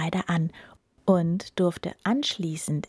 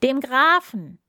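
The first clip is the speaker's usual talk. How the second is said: loud crowd call, higher; 5 semitones higher, 7 dB louder than usual. Acted. Farmhands call out to the king, a loud call. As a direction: shout it together as a crowd. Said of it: "riefen alle".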